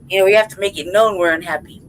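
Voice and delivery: ordinary delivery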